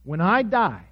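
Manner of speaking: measured reading with long pauses; scripture reading. A narrator's reading. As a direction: read the passage out solemnly, phrase by phrase. Reads the scripture passage aloud.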